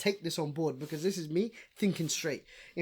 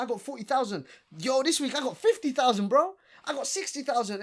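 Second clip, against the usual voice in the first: mock bragging; 7 semitones higher, 5 dB louder than usual. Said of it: "you look at your likes and you're like".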